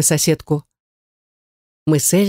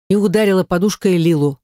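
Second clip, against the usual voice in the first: plain reading voice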